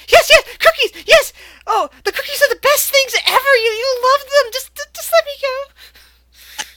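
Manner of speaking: very high, loud, frantic fairy voice; tied-up pixie pleading eagerly to the reindeer; excited pixie. Acted. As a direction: squeal and beg like a tiny pixie. Captive pixie begging, voiced.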